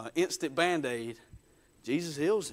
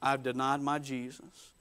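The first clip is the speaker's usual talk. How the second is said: understated, softer lament; 5 semitones lower, 6 dB quieter than usual. Retold or imitated. Peter realizing he has denied his Lord, lamenting. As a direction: quietly grieve a betrayal. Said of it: "Peter laments".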